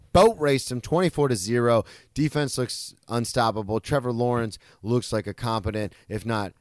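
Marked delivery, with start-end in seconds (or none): 0.1-1.8 loud gleeful. Retold or imitated. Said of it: "as Joe likes to say".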